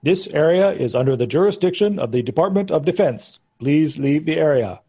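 lightly voiced robot security warning; mechanical voice. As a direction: recite it like an automated warning. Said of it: "The mechanical voice says".

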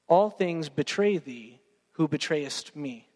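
slow, solemn poetry reading; poem recitation. Retold or imitated. Preacher reciting Thompson's poem, slow and solemn. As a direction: read it slowly and gravely, like scripture. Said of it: "he says this line".

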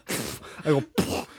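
spitting sound. Shown as a demonstration. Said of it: "I spit 'em all out and I go".

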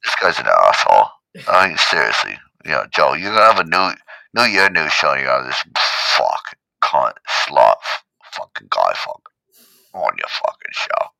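low, loud ranting that sinks away; Caps impression. Caps cursing Joe about his new show, low impression. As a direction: rant crudely, fading at the end. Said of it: "fake Caps".

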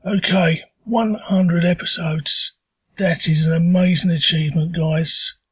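hoarse from a sore throat; talking through a sore throat. Real, not acted. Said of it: "apologise for the voice. I have got a stonking sore throat".

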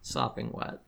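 whispered, breathy repeat; whispering. Acted. Whispered repeat of same phrase.

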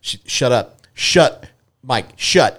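wife's cut-short, insistent hushing; imitated exasperated shushing. Wife telling a ranting husband to stop, exasperated. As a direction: shush him urgently, in a mock wife's voice. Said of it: "and Amber's".

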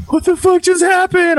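high-pitched imitation of shocked wife; retold bewildered alarm. Wife blinking back to herself, high and alarmed. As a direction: jump way up in startled confusion.

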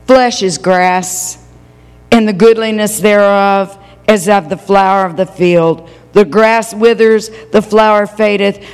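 preacher reading scripture to the church. Acted. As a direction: lay each phrase down solemnly. Reads Isaiah 40 aloud.

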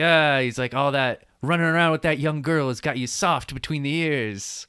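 a mild put-on old don voice; lightly voiced older father figure scolding; imitating Vito. Vito scolding his son, a mild put-on old don voice.

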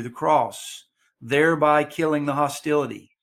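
measured reading with pauses after each phrase; slow scripture reading. Real, not acted. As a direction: read the verses out slowly and deliberately. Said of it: "I'm gonna read them slowly".

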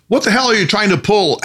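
high, sharp outburst of disbelief; enraged and amazed. A narrator's reading. Harry caught out by a trick, enraged and amazed. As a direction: snap it out, angry and stunned. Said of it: "asked an enraged and amazed Harry".

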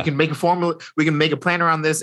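rattled off fast and eager; Reed gushing over the secret weapon, fast and excited; excited rush. Retold or imitated. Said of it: "Reed is freaking out".

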